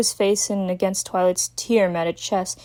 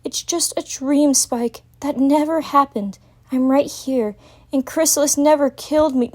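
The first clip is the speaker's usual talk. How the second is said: calming; 6 semitones higher than usual. Acted. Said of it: "tried to calm him down".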